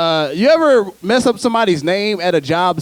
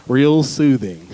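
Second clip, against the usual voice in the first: mock soothing; 3 semitones lower, slower than usual. Demonstrating a sweet soothing voice.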